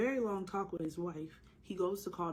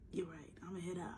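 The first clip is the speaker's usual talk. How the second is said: feigned sickness; 8 dB quieter than usual. Pretend. Joking fake sickness to leave work.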